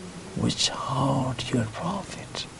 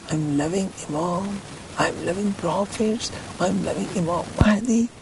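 mock boastful claim. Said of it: "he's claiming".

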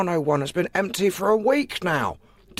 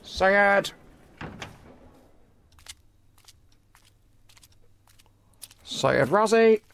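calling out; much slower than usual. Acted. Clerk calling out for Syed Razi.

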